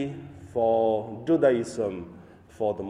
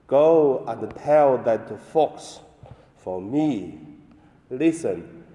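solemn liturgical reading; Gospel reading. Acted. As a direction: proclaim the Gospel at Mass.

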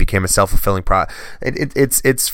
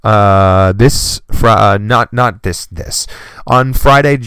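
jolted by hiccups, louder bursts; 2 semitones higher, 5 dB louder, much slower than usual. Real, not acted. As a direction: hiccups breaking the words. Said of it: "Excuse my hiccups".

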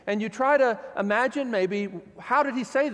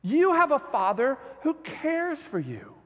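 tender invitation; 7 semitones higher than usual. Retold or imitated. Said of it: "the tender invitation".

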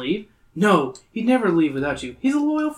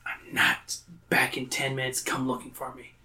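whisper; 6 dB quieter than usual. Acted. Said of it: "you whisper to Gabe".

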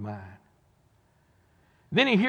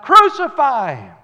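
much higher, louder cry; crowd crying out; 10 semitones higher, 15 dB louder than usual. Retold or imitated. Preacher voicing the mob crying crucify him. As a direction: shout it like a mob. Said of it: "They cried out".

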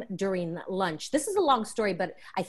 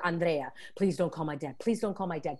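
retold begging; 4 semitones lower, 5 dB quieter than usual. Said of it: "and I beg him, beg her".

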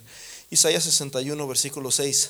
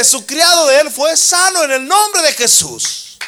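loud, high fervent proclaiming; full-force preaching; 12 semitones higher, 10 dB louder than usual. Acted. Preacher proclaiming the healing to the church, loud and high.

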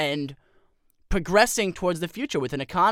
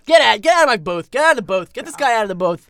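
loud, higher furious shout; angry shout; 4 semitones higher, 7 dB louder than usual. Acted. Pundit furious at his cohost, shouting him out of the booth. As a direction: throw him out of the booth, yelling. Host angrily ejects cohost.

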